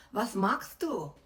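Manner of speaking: German with a mock heavy Russian accent, slow and pointed. Two women confronting the masseuse, in German with a mild mock Russian accent. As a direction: lightly imitate Russian women speaking German. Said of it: "in German with a heavy Russian accent".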